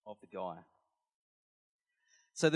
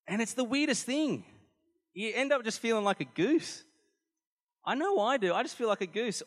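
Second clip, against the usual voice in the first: laughing; 9 semitones higher, 7 dB louder than usual. Real, not acted. Laughing at own story.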